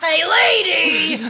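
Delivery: shrill, booming, very high, loud yell, "lady" stretched. Calling out to a lady in a studio restaurant bit: yelling. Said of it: "That yelling".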